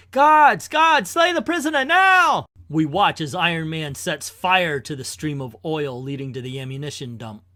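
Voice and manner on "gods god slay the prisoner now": high, loud villain yell; frantic shouted order. Acted. Warlord orders the prisoner killed, shouting frantically. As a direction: scream the command in panic.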